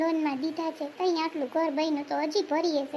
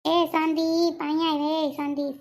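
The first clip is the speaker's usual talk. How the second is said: louder call across the house; 4 dB louder, slower than usual. Acted. Mother summoning son Sandip from afar, calling out. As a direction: call him over from the next room.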